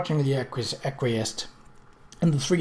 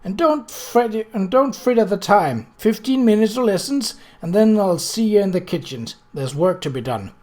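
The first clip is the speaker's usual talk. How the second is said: warning; 5 semitones higher, 3 dB louder than usual. Acted. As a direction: caution the girls, half stern. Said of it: "she warned".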